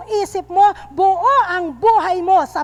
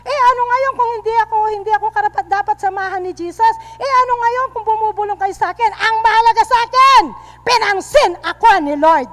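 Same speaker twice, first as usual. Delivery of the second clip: Zacchaeus defiant; 2 semitones higher, 4 dB louder, faster than usual. Retold or imitated. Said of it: "Kagaya ni Sakeo".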